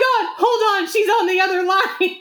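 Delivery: high-pitched flustered imitation; mock alarm. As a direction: act out a friend panicking on the phone. Imitating alarmed bride on phone.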